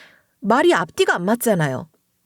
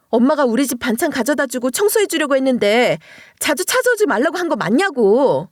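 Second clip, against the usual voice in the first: higher, sharp irritated demands at the husband; irritated questioning; 4 semitones higher than usual. Retold or imitated. Wife grilling her drunk husband, irritated and higher. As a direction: pester him with annoyed questions, pitch up. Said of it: "이런 식으로 짜증을 내면서 물었어요".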